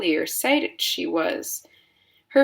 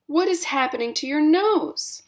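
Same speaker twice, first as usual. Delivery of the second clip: high, frantic mother's voice; alarmed mother; 9 semitones higher than usual. A narrator's reading. Mother staring at Violet's nose, high and frantic. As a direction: let panic rise in her. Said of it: "shrieked Missus Beauregard suddenly".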